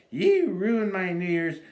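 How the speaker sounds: loud mock yell. Wife yelling at husband before throwing her beer, loud. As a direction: shout it at him.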